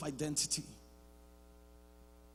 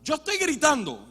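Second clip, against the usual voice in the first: demo shout; 7 semitones higher, 6 dB louder than usual. Shown as a demonstration. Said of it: "esto es gritar".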